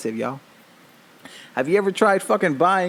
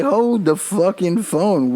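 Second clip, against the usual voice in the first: mock disbelief; 4 semitones higher, much slower than usual. Retold disbelief at TikTok hacks.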